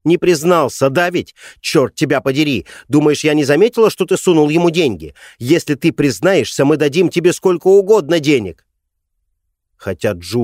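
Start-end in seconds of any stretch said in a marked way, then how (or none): 0.1-8.6 high, loud, furious screaming; mother screams accusations at her husband; hysterical shouting. Acted. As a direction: scream at him, out of control. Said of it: "Её истерические крики".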